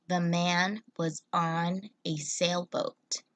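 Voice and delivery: slow, even second reading of the sentence; slow repeat. Shown as a demonstration. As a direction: repeat it slowly and clearly. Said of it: "this sentence says".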